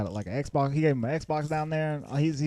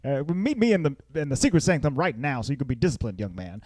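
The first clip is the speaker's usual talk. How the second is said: scolding parent; 3 semitones higher than usual. Retold or imitated. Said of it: "they're mad at him".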